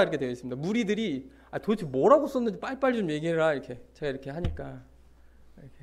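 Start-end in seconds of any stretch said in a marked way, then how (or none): 1.5-3.5 mildly impatient, urging quote; pressing demand. Acted. Crowd pressing Jesus for an answer, mildly insistent. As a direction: lightly act out a pestering crowd. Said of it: "그러니까 막 다그치는 거예요".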